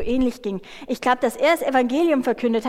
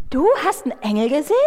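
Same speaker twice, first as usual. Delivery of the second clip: amazed; 3 semitones higher, 3 dB louder, faster than usual. Acted. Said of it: "Augen immer größer werden".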